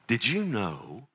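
acted dad telling a Bible wonder; storytelling to child. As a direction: draw a child in with a teasing tale. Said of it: "I would say".

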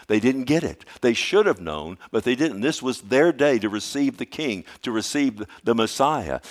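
rising pulpit fervor, loud; preaching climax. Real, not acted. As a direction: drive it home to the congregation. Preacher rising to full force.

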